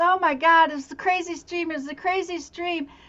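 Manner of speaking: words broken up by laughter. Retelling a dying man's words about a dream: imitating someone laughing. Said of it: "And he was laughing".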